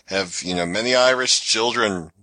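put-on Irish accent that slides into Indian; a lightly voiced tour guide trying for Irish; bad Irish accent drifting Indian; mock Irish tour guide. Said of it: "You realize that was an Indian accent that you did".

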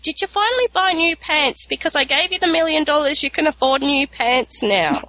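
a hint of a doting mother fussing over pants; mother-in-law voice. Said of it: "she'd come back, she'd".

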